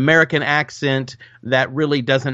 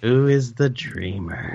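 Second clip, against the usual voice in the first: mock-mysterious echo; 3 dB quieter than usual. Echoing the dream's riddle.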